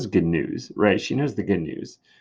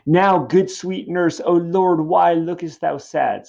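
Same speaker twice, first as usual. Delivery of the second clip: high, loud, slow plea; anxious Juliet; 9 semitones higher, 7 dB louder than usual. Acted. Juliet begging the nurse for her news, anxious. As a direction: plead urgently, stretching the words. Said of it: "Juliet is just anxious for her news".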